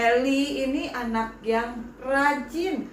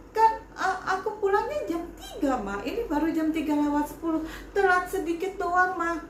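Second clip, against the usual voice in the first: put-on pleading child; 5 semitones higher than usual. Child pleading with angry mother.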